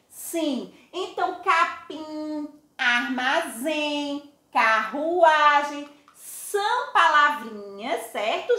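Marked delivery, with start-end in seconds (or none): 1.4-5.9 capim, armazém, carruagem said slowly, nasal endings; slow nasal demo. Shown as a demonstration. Teacher recaps capim, armazém, carruagem for class. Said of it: "faz com que a vogal seja pronunciada com som nasal".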